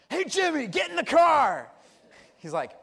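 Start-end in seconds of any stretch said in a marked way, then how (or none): 0.1-1.7 mom yelling. Retold or imitated. Jimmy's mom calling him to the car, high yell. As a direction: call out like a mom at pickup. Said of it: "She yells out".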